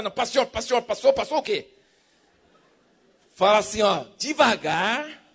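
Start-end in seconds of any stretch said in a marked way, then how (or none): 0.1-1.7 rushed greeting. Retold or imitated. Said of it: "do jeito que você sempre fala".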